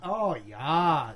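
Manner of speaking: small-town Minnesota "oh, yeah"; Minnesota accent. Shown as a demonstration. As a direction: demonstrate a Minnesotan with drawn vowels. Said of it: "it's like that".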